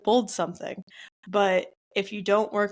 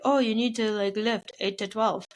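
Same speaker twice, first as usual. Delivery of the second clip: lightly voiced gym bro; a hint of a meathead bodybuilder. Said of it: "my variation of a bodybuilder's voice".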